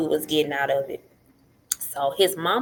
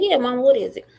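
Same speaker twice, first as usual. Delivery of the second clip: put-on higher, eager young daughter; daughter's voice; 7 semitones higher, 5 dB louder than usual. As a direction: voice the keen girl ready to help. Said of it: "She said".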